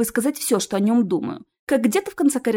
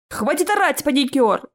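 high-pitched, irritated snap; furious; 5 semitones higher than usual. Acted. Nevil scolds shouting Ches, infuriated. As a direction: tell him off, fury held in. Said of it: "взбесился Невил".

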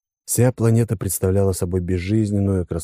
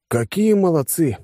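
high, drawn-out approval; praising; 10 semitones higher, slower than usual. A narrator's reading. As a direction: praise them with pitch lifted, stretching the words. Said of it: "похвалил я ушедших людей". (одобрительно, высоко и протяжно)

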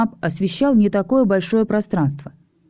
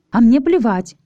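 much higher, louder defiant shout; defiant outburst; 6 semitones higher, 4 dB louder than usual. Acted. Alisa defying Ches's hush, loud outburst. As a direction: snap back that you don't care. Alisa angrily defies Ches.

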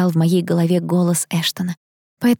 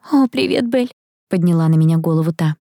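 put-on flustered girlfriend; 5 semitones higher than usual. A narrator's reading. Flustered friend with spilled parcel.

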